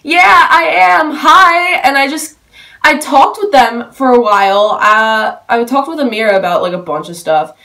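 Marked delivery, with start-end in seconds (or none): 0.0-1.8 high, loud and slowed, bursting with excitement; giddy reply. Retold or imitated. Fan answering Amira and mom, high giddy excitement. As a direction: gush the answer to the people who recognised you. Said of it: "And I was like".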